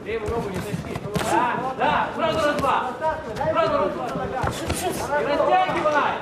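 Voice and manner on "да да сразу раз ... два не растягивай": coach yelling. Real, not acted.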